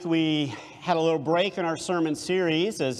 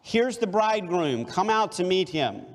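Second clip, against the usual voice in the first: higher, ringing announcement; calling out; 4 semitones higher than usual. Acted. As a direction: call it out to the sleepers. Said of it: "the cry rang out".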